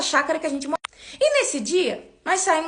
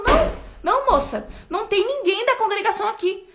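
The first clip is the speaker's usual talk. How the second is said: much higher voice of a surprised neighbour; retold neighbour, lightly voiced and higher; puzzled neighbour; 6 semitones higher than usual. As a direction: voice the woman at the door, puzzled. Neighbour denying at door.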